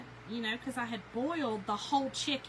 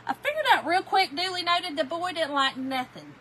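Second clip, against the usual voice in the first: amused exclamation; 6 semitones higher, 9 dB louder than usual. Real, not acted. Laughing about picky husband.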